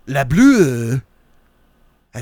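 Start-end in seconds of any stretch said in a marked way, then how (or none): 0.1-1.0 goofy shout. Pretend.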